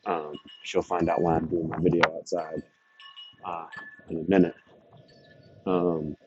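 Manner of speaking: speaking into gusty wind; words buffeted by outdoor wind; wind in the face. Real, not acted. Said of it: "it's a little windy out here".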